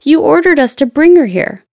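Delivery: high, loud protest; pirates yelling. A narrator's reading. Pirates protesting to their captain, high loud yell. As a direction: call out in protest. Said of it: "the pirates yelled".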